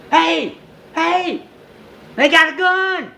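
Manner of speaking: high alarmed warning shout; officer spotting the gun, high alarmed yell. Retold or imitated. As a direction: warn the others in a panic.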